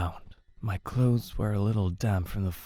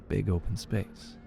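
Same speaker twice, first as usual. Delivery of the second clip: ordinary delivery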